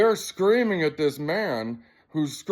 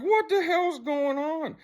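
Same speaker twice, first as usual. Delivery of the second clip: very high, drawn-out disbelief; retold bewilderment; 13 semitones higher, slower than usual. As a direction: re-enact being baffled, stretched and pitched way up. Retells bewilderment at scene.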